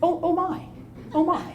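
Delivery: high, soft breathy laugh of dismay; oh-no moment said half-laughing; retold shock at being the only woman; dawning realization. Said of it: "That's when it dawned on me".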